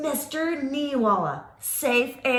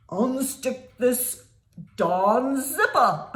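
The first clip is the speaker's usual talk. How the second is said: monster voice; 3 semitones lower, slower than usual. Acted. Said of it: "he screamed".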